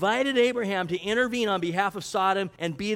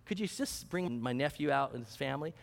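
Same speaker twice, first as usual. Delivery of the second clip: softer, lower voice, conceding as he asks; understated, low-key appeal on a nephew's behalf; imagined humble request; 3 semitones lower, 5 dB quieter than usual. Retold or imitated. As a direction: quietly put a tentative plea to God. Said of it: "He could have easily said that".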